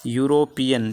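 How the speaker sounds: यूरोपियन repeated with a clear Y onset; yoo-ro-pi-an. Shown as a demonstration. Teacher repeats यूरोपियन for the class, opening with a Y glide. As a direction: say यूरोपियन carefully, stressing the opening Y sound. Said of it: "तो आपका इसका उच्चारण क्या है".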